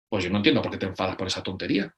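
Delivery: mildly impatient parent shrugging it off; dismissive adult. Retold or imitated.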